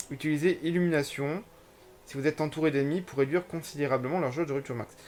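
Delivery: reading a game tutorial aloud; slightly formal read-out of game text. Acted. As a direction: read on-screen instructions out, phrase by phrase.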